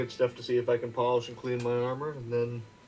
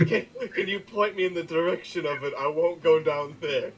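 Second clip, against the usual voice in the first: mock the suspicious line through laughter; laughing mock repeat; 5 semitones higher than usual. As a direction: repeat it, laughing and a bit higher. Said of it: "The most suspicious way to word it".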